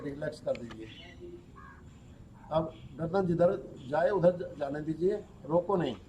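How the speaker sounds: guided relaxation. Real, not acted. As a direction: guide them gently through relaxing each body part, with long pauses. Leads a yoga nidra relaxation. (योग निद्रा का शांत निर्देश)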